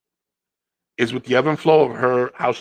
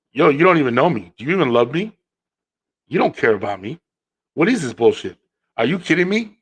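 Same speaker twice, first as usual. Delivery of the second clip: indignant retold outburst, louder; mock angry rant; 3 semitones higher, 4 dB louder than usual. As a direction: play the wife ranting at the gift. Wife yells over wrong gift.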